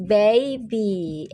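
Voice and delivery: put-on baby said slowly and clearly, BAY-bee; model word baby. Shown as a demonstration. Teacher to pupils, modelling baby clearly. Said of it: "Everybody say baby".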